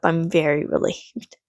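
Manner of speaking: voiceless whisper, not to wake the cat; whispering so the cat won't wake. Real, not acted. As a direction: hush so the cat sleeps.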